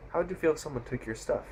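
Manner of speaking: lightly voiced confronting biker at normal speed; biker's challenge. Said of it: "someone so cliche in an action movie".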